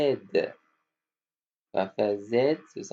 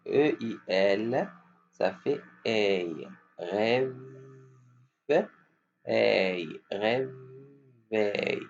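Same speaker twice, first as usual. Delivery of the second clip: slow model; much slower than usual. Shown as a demonstration. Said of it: "Qui vont répéter?".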